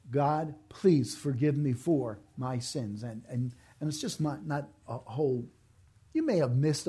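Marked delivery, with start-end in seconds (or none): 0.1-3.0 slow sincere prayer. Shown as a demonstration. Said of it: "you need to have said".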